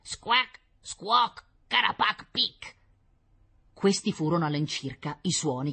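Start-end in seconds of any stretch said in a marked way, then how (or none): 0.0-2.8 high, croaked nonsense cries; irritated squawking. A narrator's reading. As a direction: squawk crossly in an alien tongue. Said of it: "gridò qualcosa con voce irritata". (gracchiare irritato)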